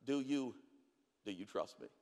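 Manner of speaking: the Spirit asking gently in a hush; whispered question. Acted. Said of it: "the Holy Spirit whispers".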